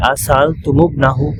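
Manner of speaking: সাআলতুমুবনাহু drawn out very slowly, মিম linked with dhamma; slow joined reading. Shown as a demonstration. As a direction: stretch আ সাআলতুমুবনাহু syllable by syllable. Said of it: "মিমে দম্মা দেওয়া হয়েছে".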